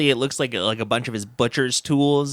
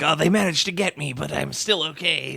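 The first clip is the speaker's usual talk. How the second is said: imitating him; 5 semitones higher than usual. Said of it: "He's like".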